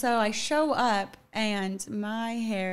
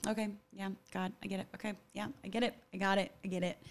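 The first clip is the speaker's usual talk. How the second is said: resigned self-talk; 6 dB quieter, faster than usual. Retold or imitated. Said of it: "I was just like".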